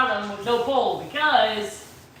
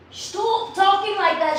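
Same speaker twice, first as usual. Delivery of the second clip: higher, slow mock scolding; exasperated quote; 5 semitones higher than usual. Carrie fed up with the accent, mock scolding. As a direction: imitate someone fed up, pitched up and drawn out. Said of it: "she says".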